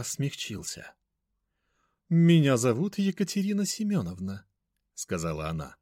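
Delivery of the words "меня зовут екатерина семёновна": high, mannered introduction; stately, affected society lady; grand lady voice. A narrator's reading. Мать представляется. (величественная манерная дама)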